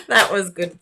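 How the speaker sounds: laughing as she talks; giggling through the words. Real, not acted. Laughing at a squeal.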